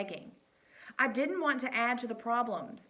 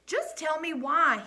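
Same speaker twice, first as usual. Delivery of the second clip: firm demand; 7 semitones higher, 7 dB louder than usual. A narrator's reading. Coach demands after slamming door.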